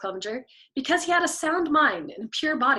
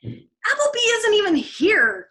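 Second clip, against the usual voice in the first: high, slow, gloating retort; triumphant; 10 semitones higher, 7 dB louder, slower than usual. A narrator's reading. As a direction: crow it like you've caught him out. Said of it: "pointed out triumphantly".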